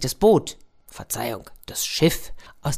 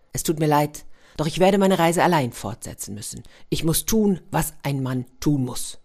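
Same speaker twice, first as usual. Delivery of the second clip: moving speech. Acted. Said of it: "hielt eine sehr bewegende Rede".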